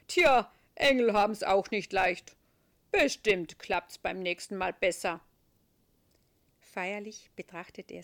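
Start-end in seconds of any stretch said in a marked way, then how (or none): 0.1-5.2 Saint Peter voice. A narrator's reading. Peter character.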